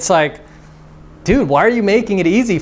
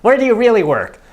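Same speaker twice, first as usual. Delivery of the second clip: put-on teasing girl disbelief; 6 semitones higher than usual. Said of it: "And she'll be like".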